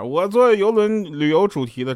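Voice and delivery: slow, showy boast; smug bragging parent. Retold or imitated. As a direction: brag like a rich parent.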